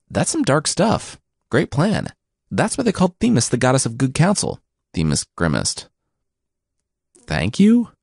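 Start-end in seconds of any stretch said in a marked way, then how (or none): 0.1-4.0 sarcastic. Acted. Zeus mocking Themis's plan. 7.3-7.9 puzzled. Acted. Themis unsure of the compliment.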